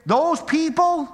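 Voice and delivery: joking snobbish tone; mock snooty. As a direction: sneer it playfully. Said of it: "I'm being funny".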